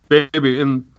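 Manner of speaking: talking through a bite of banana; words round a mouthful; mouth full. Real, not acted. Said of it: "I'm sorry, I'm eating a banana".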